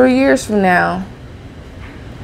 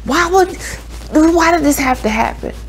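mock mad lament; 9 semitones higher than usual. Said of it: "You'd be like".

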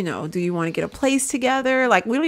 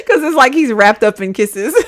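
a bit louder through laughter; laughing while talking; 4 dB louder than usual. Real, not acted. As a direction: talk through the giggles. Laughing while describing face.

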